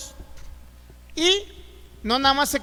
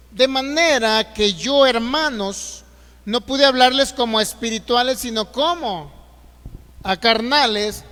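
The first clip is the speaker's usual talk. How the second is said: forceful scripture reading; 5 dB louder than usual. Real, not acted. Preacher reading Corinthians to the congregation, slow and loud. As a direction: read the verse slow and loud, leaning on each phrase.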